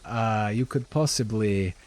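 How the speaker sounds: put-on accented shopkeeper, hesitant then lilting up; shopkeeper Lenine, coaxing. Shopkeeper asks heroes to carry crates inside, coaxing accented lilt. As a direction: coax a favor in the character's accent.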